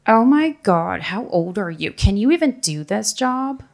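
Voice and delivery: mock-incredulous, pitch jumping up; incredulous disbelief. Older colleague questioning the new hire, mock incredulous. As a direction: imitate an appalled, doubting colleague.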